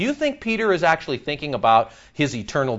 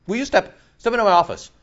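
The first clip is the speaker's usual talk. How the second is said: boss calling you in; 5 semitones higher, faster than usual. Retold or imitated. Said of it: "That's the feel right there".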